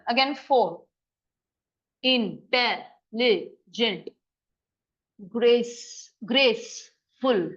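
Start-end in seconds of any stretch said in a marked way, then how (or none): 2.0-4.1 drawn out slowly, syllable by syllable; slow teacher's spelling-out of Intelligent. Shown as a demonstration. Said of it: "how many syllables are here". 5.3-7.5 slow, drawn-out "graceful" to count syllables; teacher slowly sounds out "graceful"; syllable demo. Shown as a demonstration. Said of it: "Two syllables".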